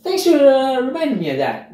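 hammed-up smug self-praise; mock boasting. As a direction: play the pleased, self-satisfied boaster. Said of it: "she doesn't start boasting and say".

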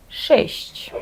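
шесть with hard SH first, soft SH before the final soft CH. Shown as a demonstration. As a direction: Polish sheshch, hard hiss then soft hiss. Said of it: "саме є твердий Ш і м'який". (шесть: тверде Ш, потім м'які ЩЬ-ЧЬ)

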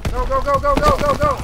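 very high, loud frantic yell; urgent shouting. Real, not acted. Gamer urging teammates into the attack, frantic shouting. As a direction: scream them forward.

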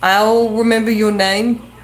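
usual speaking voice

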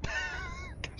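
slow drawn-out falsetto question; squeaky falsetto. Pretend. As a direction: stretch it out in a silly squeak. Incredulidad burlona por la sombra. (falsete lento y burlón)

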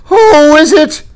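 high, loud shout across the water; panicked captain hailing a ship, shouted high; captain cries out. Acted. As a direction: yell it from ship to ship. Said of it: "the captain cried".

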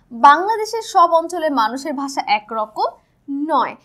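slow, deliberate reading aloud of the book sentence; reading from the textbook. Shown as a demonstration. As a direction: read the line out slowly, word by word, like a textbook. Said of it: "একটু দেখে নিই". (বই থেকে ধীরে ধীরে পড়ে শোনানো)

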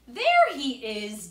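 loud, slow, joyful call; excited shout. Acted. Boy calling out on spotting his wet cat, excited. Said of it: "David exclaimed".

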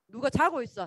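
ordinary delivery

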